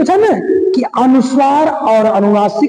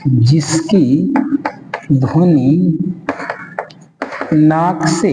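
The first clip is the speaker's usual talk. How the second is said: slow dictation; 7 semitones lower, 3 dB quieter, much slower than usual. Shown as a demonstration. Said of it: "dictating slowly".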